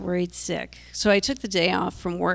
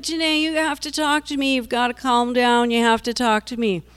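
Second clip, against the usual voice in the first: urgent pleading; 5 semitones higher, 4 dB louder than usual. Retold or imitated. Mother urging screaming daughter to talk.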